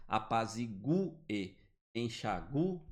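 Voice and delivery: "Apazigue" very slow with the U sounded, then "enxague"; strong U. Shown as a demonstration. Teacher reading examples slowly, U sounded. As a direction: draw out "Apazigue" so the U is heard.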